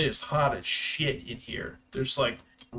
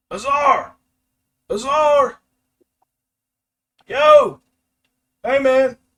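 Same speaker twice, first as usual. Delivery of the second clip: very high, very loud, slow, drawn-out shout; 11 semitones higher, 12 dB louder than usual. Voicing a character calling out to a figure in the flames: shouting a name. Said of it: "Connor kinda shouts".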